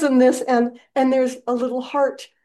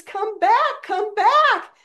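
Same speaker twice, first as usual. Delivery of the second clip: high, louder call after a balloon; 4 dB louder, much slower than usual. Retold or imitated. Dorothy calling the wizard's drifting balloon back, high and loud. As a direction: call after someone leaving without you.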